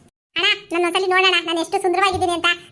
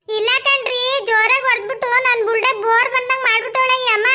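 whiny complaint; 3 semitones higher than usual. Acted. Wife whines to husband.

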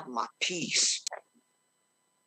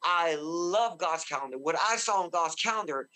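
normal talking voice

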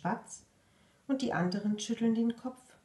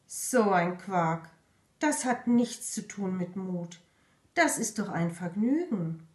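fake disappointment. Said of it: "Der Frosch tut enttäuscht".

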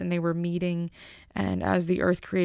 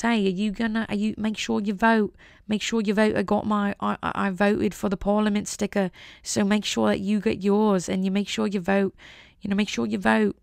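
nagging Brit impression, lightly put on; mock British accent. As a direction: urge them on in a playful British accent. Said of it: "I love that British people are urging us all to vote".

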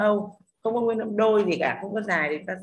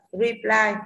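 reply with the second syllable leaned on, louder; stress on second syllable; 6 dB louder than usual. Shown as a demonstration. Teacher models reply for students, stress on second syllable. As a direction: put the weight on the end of reply. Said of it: "tiền tố này không nhận trọng âm mà ply lại là âm".

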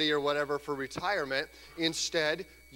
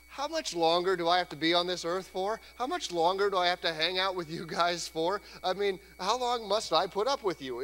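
annoyed Jesus; 3 semitones higher than usual. Retold or imitated. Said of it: "He says basically to his disciples".

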